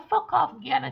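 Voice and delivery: cheeky loud dismissal; laughing retort. Retold or imitated. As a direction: tell them off with a laugh. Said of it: "you say".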